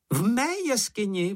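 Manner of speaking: high, squeaky excited cry; Sniff exclaiming. A narrator's reading. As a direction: squeal it in surprise. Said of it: "vykřikl Čenich". (vysoký pištivý výkřik)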